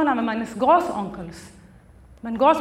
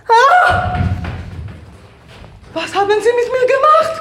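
high, loud startled outburst; horrified shout at her own young hands; shocked cry; 7 semitones higher, 5 dB louder than usual. Acted. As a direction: gasp then demand an answer.

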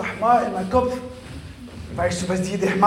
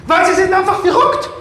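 shouting; 9 semitones higher, 9 dB louder than usual. Acted. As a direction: yell it out loud. Insulting shout.

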